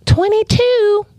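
high, drawn-out surprised question. Real, not acted. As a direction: sound amazed at the number. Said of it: "'Cause he's smart".

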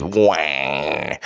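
drawn-out nasal-style "wah"; imitated punchline wail. Mocking a comedian's punchline, stretched-out wah. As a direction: mimic a comedian's long wah. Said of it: "comedian bitch that says".

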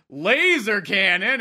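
"laser cannon" drawn out slowly as if quoted; in air quotes. Retold or imitated. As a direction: put slow, mocking quote marks round "laser cannon". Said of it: "it's, like, in quotes".

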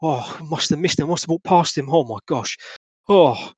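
a nervous Cockney man babbling to the Governor; frightened Cockney witness. Acted. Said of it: "the gentleman turns towards you and says".

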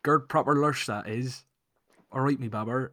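a hint of an attempted Bristol accent; trying Bristolian accent. Shown as a demonstration. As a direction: have a go at the West Country accent. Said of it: "let me try it".

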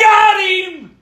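gloating. Real, not acted. Friend gloats after roast.

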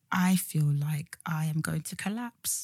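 faint unvoiced whisper. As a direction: breathe it out like near collapse. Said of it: "And I was like".

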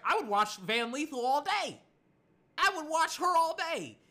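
loud, high-pitched gushing declaration; excited fan shout. Retold or imitated. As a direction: shout your devotion like a superfan. Acting out his fan enthusiasm.

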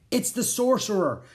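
high-pitched, urgent warning; alarmed warning. A narrator's reading. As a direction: warn them in alarm. Jack warns everyone of the sorcerer.

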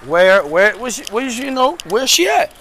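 mock baffled girlfriend, pitch climbing; retold puzzled questions. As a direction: imitate her pressing confused questions, climbing up. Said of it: "She's like".

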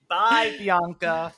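high, drawn-out goodbye; mock farewell. Waving off Bianca from the bench, teasing farewell. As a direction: sing out a slow teasing bye.

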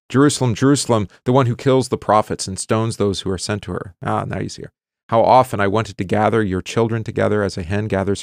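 measured, solemn reading of Hosea to the class; scripture reading. Acted. Teacher reads Hosea to the class, solemn reading voice. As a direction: read the prophet's words aloud with weight.

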